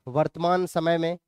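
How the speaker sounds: measured, level dictation with long pauses. Acted. Teacher dictates notes for students to write, measured dictation. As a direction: read it out phrase by phrase for note-taking.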